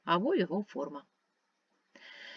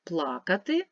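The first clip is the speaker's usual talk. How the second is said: Плакати with stress on the first syllable, ПЛА-кати. Shown as a demonstration. Teacher repeats the pair for pupils: ПЛА-кати. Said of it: "змінюється значення слова".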